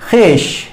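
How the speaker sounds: खिश said as plain khish, no v; correct reading. Shown as a demonstration. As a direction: drop the written vav in खिश. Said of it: "इसका तलफ़ुज़ कैसे होता है". (खिश, व बिल्कुल नहीं बोलना)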